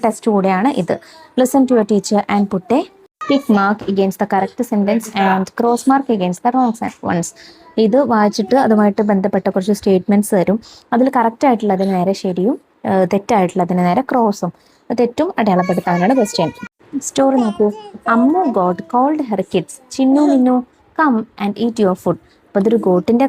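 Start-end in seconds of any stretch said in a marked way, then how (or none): 1.4-7.4 put-on each word read out slowly for young pupils; slow classroom dictation. Shown as a demonstration. Teacher reads instructions slowly. 18.1-22.2 slow, careful read-aloud; slow dictation of a children's story. Shown as a demonstration. Teacher reads story for dictation.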